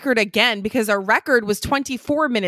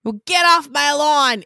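put-on slow, loud, higher old-timer yell; grumpy old man; 5 semitones higher, 5 dB louder than usual. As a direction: shout it like a cranky old prospector. Old man grumbling line.

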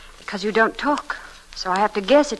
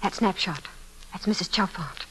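whisper; 7 dB quieter than usual. Acted. Spotting the missing woman's photo.

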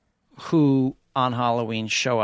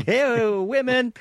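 high mock call; 11 semitones higher, much slower than usual.

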